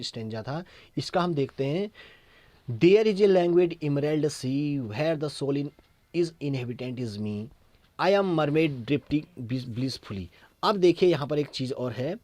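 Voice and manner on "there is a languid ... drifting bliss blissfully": slow, careful stanza reading; unhurried classroom recitation; poem reading. Acted. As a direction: lay out each word of the verse for students. Teacher reads the second stanza aloud.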